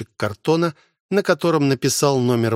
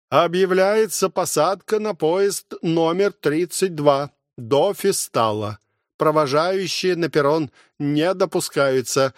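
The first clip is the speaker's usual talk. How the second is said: station announcer; 5 semitones higher than usual. Acted. Глашатай объявляет посадку.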